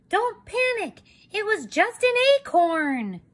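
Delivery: high chicken reassurance; bossy chicken. Acted. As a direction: cut in to calm everyone. Chicken bursts in again.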